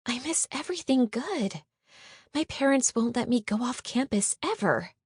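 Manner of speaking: understated sulky lament; mild moan. Acted. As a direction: moan it lightly, feeling left out. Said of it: "Joni moaned".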